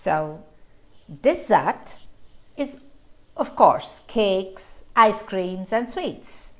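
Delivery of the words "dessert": "dessert" said de-ZERT, second syllable stressed. Shown as a demonstration. Teacher naming sweets, stressing dessert's second syllable. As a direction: lean on the end of "dessert". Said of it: "the second syllable is the stressed syllable".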